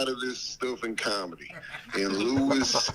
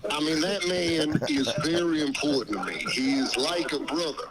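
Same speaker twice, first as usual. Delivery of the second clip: Dave Chappelle voice. Pretend. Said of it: "You sound just like him".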